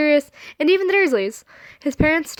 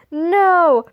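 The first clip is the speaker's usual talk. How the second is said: dismayed shout; 5 semitones higher, 4 dB louder than usual. Acted.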